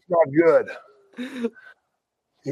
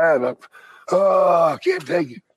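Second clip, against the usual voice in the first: mock panic; 4 semitones higher than usual. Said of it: "I'm like".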